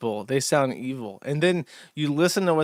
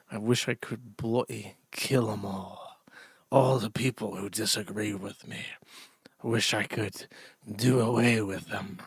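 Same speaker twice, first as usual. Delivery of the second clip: hateful inner thoughts; 6 semitones lower, 8 dB quieter than usual. Retold or imitated. To chat, voicing the angry man's thoughts, low and menacing. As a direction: brood darkly under the breath, lower. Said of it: "this man filled with hate and anger".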